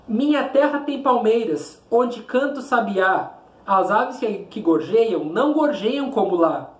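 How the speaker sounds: measured, rhythmic declamation; poem recitation. Shown as a demonstration. Teacher reading the poem aloud to students, declaiming.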